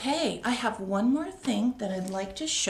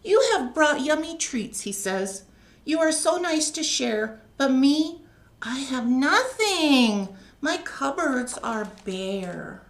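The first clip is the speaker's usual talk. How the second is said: a bear ashamed of empty cupboards; sad bear; 4 semitones higher, 4 dB louder than usual. Acted. Bear laments he has nothing.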